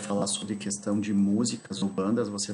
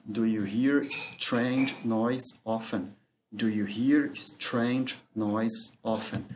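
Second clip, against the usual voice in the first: slow dictation; much slower than usual. Shown as a demonstration. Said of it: "teacher repeats example slowly".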